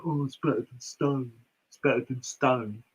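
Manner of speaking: mock London accent, derogatory. Imagined beer fans raving, mock London accent. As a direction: put on a sneering London accent. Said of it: "a London accent".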